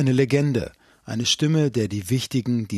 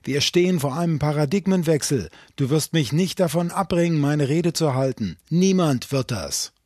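loud, raised, slowing defiance; furious defiance; 4 semitones higher, 5 dB louder than usual. Acted. Enraged laureate defying his caller, loud and higher. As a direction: refuse to be stopped, voice up in rage. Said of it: "Gesicht lief rot an vor Zorn".

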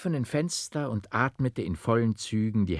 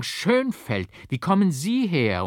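much higher and louder, amazed; stunned, loud astonishment; astonished cry; 9 semitones higher, 6 dB louder than usual. A narrator's reading. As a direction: burst out in disbelief at seeing him. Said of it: "rief ich voll Verwunderung".

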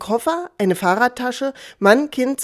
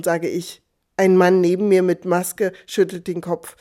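plain reading voice

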